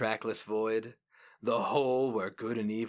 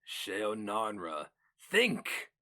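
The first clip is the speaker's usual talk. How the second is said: urgent command; much slower than usual. Acted. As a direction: command him to think, sharp and urgent. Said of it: "No word was so raw".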